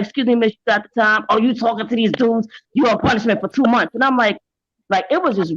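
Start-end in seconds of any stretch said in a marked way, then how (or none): 0.0-3.9 strict dad's punishment. Retold or imitated. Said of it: "They could have been like".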